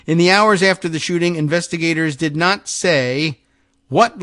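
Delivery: measured, emphatic article reading; projected radio news delivery. Acted. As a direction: read the report out with deliberate weight. Reads the newspaper article aloud.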